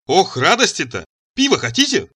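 high, grinning offer; beaming delight. A narrator's reading. Cheerful slave offers the lady a beer, delighted. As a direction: gush happily, pitch rising. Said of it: "расплываясь ещё шире".

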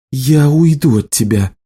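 usual speaking voice

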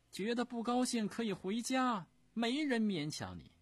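high, loud, sneering dismissal; haughty dowager voice. Acted. Empress Dowager tells the prince to leave, high and loud with scorn. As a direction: wave him off with scorn.

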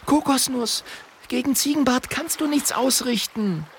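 high, urgent pleading; a worried girl warning a friend; Mathilda's voice. A narrator's reading. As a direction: hold him back firmly. Mathilda holds dragon back.

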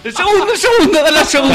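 high, eager calls of "el segundo"; excited urging. Real, not acted. Friend urges the player to pick the second tree. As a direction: egg the player on.

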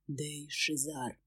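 low, slow, soft drawl; a smug demon savouring the lie; sly demon. Acted. Demon gives false name. (демон низко и медленно, с ухмылкой)

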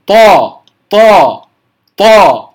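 "طا" with air and voice held at the stop; firm heavy t in "طا", tongue tip behind upper teeth, no aspiration; correct pronunciation. Shown as a demonstration. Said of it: "بغير أن يجري الهواء ولا". (نطق "طا" بحبس الهواء والصوت)

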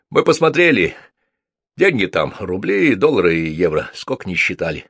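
put-on rough young thug. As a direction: boast like a hired muscle guy reporting back. Same thug voice. (грубоватый голос громилы, громче и выше)

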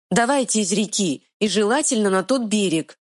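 high urgent fairy; tiny fairy hurrying; pixie voice. Acted. Fairy urges escape.

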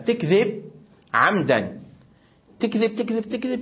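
put-on tattling child. Older girl tattling on sister.

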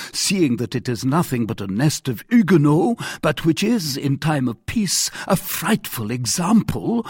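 emphatic accusing monarch, rising in pitch at the end; indignant king. Acted. King accusing captain's musketeers, indignant. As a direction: build the charges towards a challenge.

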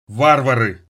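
a loud pained groan of a word; moaning. Acted. Wounded man groans his news to the youths, pained. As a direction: push the word out through pain. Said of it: "простонал раненый".

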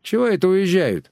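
high, astonished question; surprised neighbour. Acted. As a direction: sound taken aback. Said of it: "изумилась соседка".

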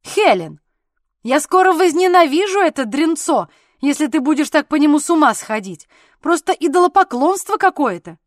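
loud, high angry outburst; angry shout. A narrator's reading. Husband angrily yelling at his wife Helen about the baby, loud and high. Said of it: "сердито крикнув".

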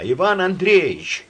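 high, loud, slow call; drawn-out frightened call; anxious call. Acted. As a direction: call him out in rising fear. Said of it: "позвала она".

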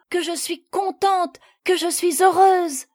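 high, swelling cry of happiness; overjoyed. A narrator's reading. Lucie throwing herself at her mother's neck, overjoyed. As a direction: burst with joy, rising in pitch. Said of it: "si joyeuse, si éclatante de bonheur".

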